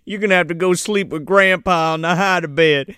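light Southern parental scolding; playful country Southern accent; put-on Southern accent. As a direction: hand down punishment in a Southern accent. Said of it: "one-up each other with their accent".

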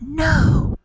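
high, drawn-out mock shout; shouted refusal. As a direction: cry out high in storybook alarm. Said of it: "the prince shouted".

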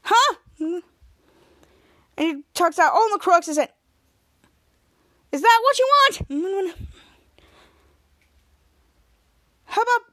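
high, loud showing-off taunts; cocky taunting. Retold or imitated. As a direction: taunt the goons as you knock them down. Captain Man taunting while fighting.

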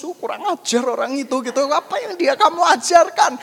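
mock indignant scolding, rising in pitch and volume; hammed-up accusing rant; cursing angry boyfriend. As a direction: act out an outraged complaint. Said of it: "Dia menyumpai-nyumpai saya".

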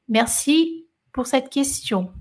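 slow French thanks. Real, not acted.

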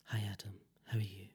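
imitating a seductive hushed voice; hushed podcast whisper. Shown as a demonstration. Podcast host greeting co-host in the actress's style, hushed whisper. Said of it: "the whole podcast like that".

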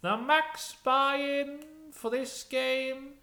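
loud, high, slow British dealer; affected professional British, stretched right out; Chegwin. Acted. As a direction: announce it like a pompous croupier. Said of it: "he's put on the voice to sound more professional".

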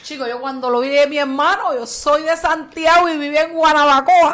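put-on a light Cuban accent, playful; a hint of a Cuban accent. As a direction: speak as a Santiago-born Cuban. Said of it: "dónde sacaste el acento cubano ese".

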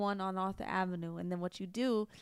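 put-on brash Long Island accent building up; Long Island accent, worked up about Staten Island. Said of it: "Long Island voice".

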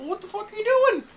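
high, fast whiny yell; mock whiny yell. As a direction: fire it off like an angry wrestler. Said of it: "It's like".

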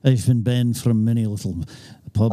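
playful Scottish pub regular; mock Scottish accent. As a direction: put on a joking Scots accent. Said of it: "has a better Scottish accent".

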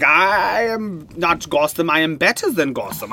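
put-on villain accent, drawn-out opening; Hugo Strange accent. Hugo Strange watching from a distance, put-on accent. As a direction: play Hugo Strange with a made-up accent, slow at first. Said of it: "I don't know if he has an accent".

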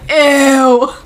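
a long, exaggerated EW of disgust; drawn-out ew. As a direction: stretch EW out long. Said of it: "with four W's".

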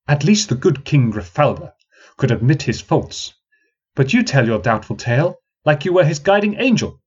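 young woman mocking the old man, sarcastic; sarcastic jibe. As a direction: tease him for the crowd with a light sneer. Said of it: "She shrilled her words sarcastically".

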